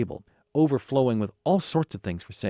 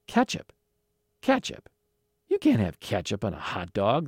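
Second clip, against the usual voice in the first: growled disbelief. Acted. Hot dog vendor refusing a boy ketchup, mildly growled. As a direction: repeat it incredulously, then a mild growl. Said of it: "the vendor growled".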